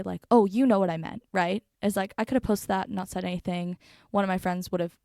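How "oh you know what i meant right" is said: mock defensive. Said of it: "I could get defensive and say".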